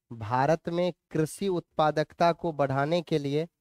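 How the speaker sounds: measured, level dictation with long pauses. Acted. Teacher dictates notes for students to write, measured dictation. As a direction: read it out phrase by phrase for note-taking.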